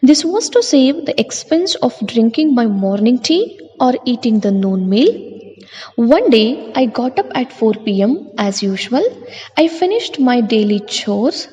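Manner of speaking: textbook passage read at an even, slightly lifted pace; reading aloud. Acted. Teacher reading the story to the class, steady reading voice.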